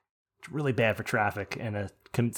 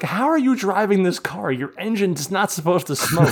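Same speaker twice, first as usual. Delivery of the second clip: high, loud disbelief at the other driver; asking in outraged disbelief; how are you even driving this; incredulous; 7 semitones higher, 4 dB louder than usual. Retold or imitated. Incredulous question to smoking driver.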